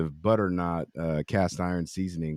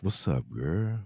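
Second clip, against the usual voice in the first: a singer's deep voice; 5 dB quieter, slower than usual. Acted. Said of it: "Your singer voice".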